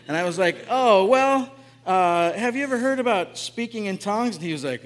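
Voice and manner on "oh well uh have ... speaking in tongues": louder, rising eager question; louder retold eager question; eager louder reply. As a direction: blurt it out, hoping he bites. Retelling his eager answer.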